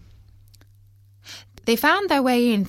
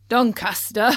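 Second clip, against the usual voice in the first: mocking chuckle round the words; laughing driver; 4 semitones higher, 3 dB louder than usual. A narrator's reading. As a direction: scoff with a loud laugh. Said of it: "laughed the driver".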